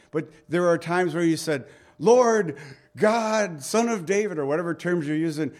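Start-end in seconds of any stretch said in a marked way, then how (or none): 2.0-4.4 loud and higher, calling out; pushy prayer with no heart in it; demanding prayer. Shown as a demonstration. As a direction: fire off the titles like a demand. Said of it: "more like demanding".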